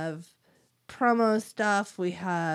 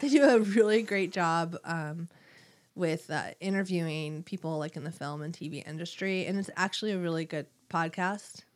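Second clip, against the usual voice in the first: snotty. Real, not acted. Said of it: "I said that, like, in a snotty way".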